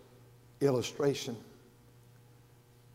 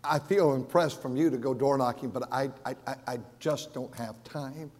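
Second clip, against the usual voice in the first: put-on pleading young preacher. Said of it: "And he said".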